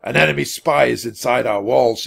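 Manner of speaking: understated roar, firm officer's voice. A narrator's reading. Centurion to other horsemen, roaring. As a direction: announce danger with some force. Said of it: "he roared".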